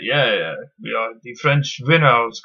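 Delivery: a hint of a bad French accent, slowed a little; mock French villain accent, lightly done, with a drawn-out gloat; awful French accent. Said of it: "That's my awful French accent".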